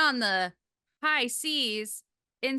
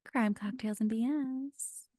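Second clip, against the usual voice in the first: slow show intro; 4 dB quieter, slower than usual. Acted. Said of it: "for this episode of".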